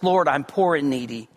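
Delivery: bow low and speak the prayer humbly; humble prayer. Retold or imitated. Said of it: "We approach him humbly".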